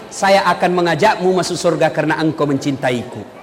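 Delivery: low, soft and unhurried; tender promise. Retold or imitated. The Prophet promising heaven to the simple villager, tender and low. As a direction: reassure him gently. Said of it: "Apa kata Nabi?".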